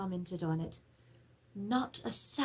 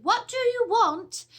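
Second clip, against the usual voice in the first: loud, high, slow shout into the dark; shouted challenge; 12 semitones higher, 10 dB louder than usual. Retold or imitated. Maid shouting down the cellar stairs at footsteps, loud high shout. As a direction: demand it sharply, much higher and louder. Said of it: "She shouted".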